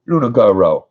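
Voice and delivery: calls the dog's full name out loud, falling at the end. Real, not acted. Calling the dog by full name.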